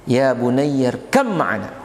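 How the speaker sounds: slow ya bunayyarkam ma'ana with held mm; drawn-out recitation of bunayyarkam; tajwid reading. Shown as a demonstration. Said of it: "tapi dibaca". (bacaan tajwid pelan dengan mim bertasydid)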